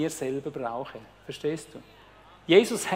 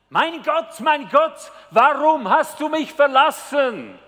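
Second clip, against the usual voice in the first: high, loud anguished cry to God; Jesus crying out from the cross; 8 semitones higher, 7 dB louder, slower than usual. Retold or imitated. Jesus on the cross cries out to God, high anguished cry. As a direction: wail it upward like a dying man abandoned. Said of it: "und ruft".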